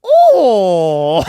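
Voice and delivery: very loud, high "Oh" in mock Asian accent; hammed-up Asian-accent exclamation. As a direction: burst out in a caricatured Asian accent. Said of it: "in a racist Asian accent".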